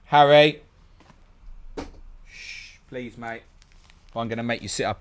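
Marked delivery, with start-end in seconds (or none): 0.1-0.6 calling out. Real, not acted. Calls out to his son. 2.2-3.4 shh, then soft please mate; hushing whisper. Real, not acted. Hushing his son.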